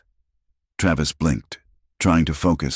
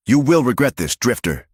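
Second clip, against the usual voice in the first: shouted; 8 semitones higher than usual. Acted. Beaten deputy threatening the drifter, shouting. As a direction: yell it as you back away. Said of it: "he shouted".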